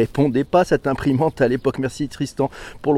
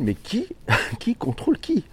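pitched up high with a laugh breaking in; laughing question; 7 semitones higher, 4 dB quieter than usual. Real, not acted. Host amused at the listener's question, laughing high. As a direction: laugh while asking who controls whom.

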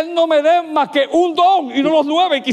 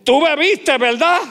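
accusing question; 3 semitones higher than usual. Acted. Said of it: "pregunta que yo llamo pregunta contestada".

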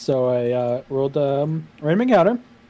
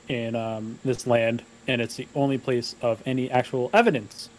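measured, calm campfire storyteller; fireside storytelling. Acted. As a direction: set the scene like a tale by the fire. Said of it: "your best storyteller voice".

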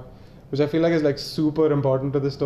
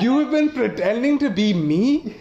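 incredulous rant; 4 semitones higher than usual. Pretend. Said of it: "I would have been like".

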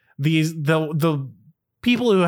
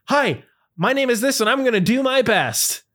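high, eager self-introduction; chirpy game show contestant; 10 semitones higher than usual. Retold or imitated. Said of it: "people going like".

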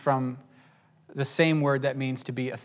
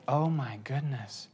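exasperated; 8 dB quieter, slower than usual. Retold or imitated. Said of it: "And Paul's like".

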